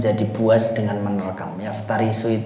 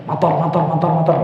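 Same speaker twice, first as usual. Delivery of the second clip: exaggerated Arabic motor; 3 semitones higher, much faster than usual. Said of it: "Kita harus ngomongnya fasih".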